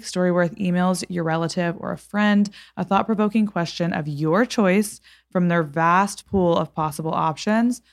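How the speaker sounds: measured, scripted sponsor read; podcast ad read. Acted. Host telling listeners about a gift sponsor, ad read. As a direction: read the sponsor copy with even, deliberate phrasing.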